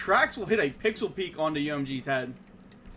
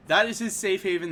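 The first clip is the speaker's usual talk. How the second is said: louder punch on "That is his safe haven"; excited emphasis; 5 dB louder than usual. Real, not acted. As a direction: hit "That" hard, rising energy. Caster emphasizes the defender.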